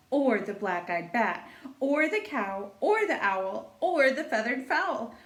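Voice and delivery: lilting singsong read-aloud; storytime reading. A narrator's reading. Teacher reading a rhyming book to children, singsong storytelling. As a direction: read it like a picture book for little kids.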